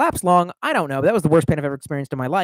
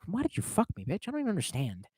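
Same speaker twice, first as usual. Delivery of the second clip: mock hurt plea; 2 semitones higher, 14 dB quieter, faster than usual. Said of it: "And then I'm just like".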